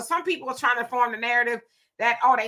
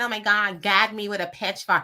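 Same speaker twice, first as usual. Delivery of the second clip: put-on classic California valley girl voice; 3 semitones lower than usual. Showing how someone could sound: valley girl voice. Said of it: "a black girl could sound like a valley girl".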